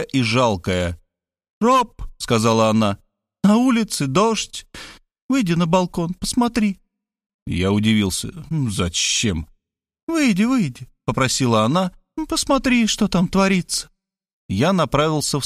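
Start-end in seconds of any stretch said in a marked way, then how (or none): 1.6-2.0 put-on young woman's voice. A narrator's reading. Varvara calling him. 3.4-13.9 put-on high, urging young woman; Varvara's voice. A narrator's reading. Varvara wet from the rain urging Rob to look, high.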